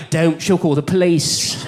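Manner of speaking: slow warning in a put-on English accent; English-accented mind. Mind stopping him approaching her, put-on English accent. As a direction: caution slowly in an English accent. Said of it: "my mind would be like".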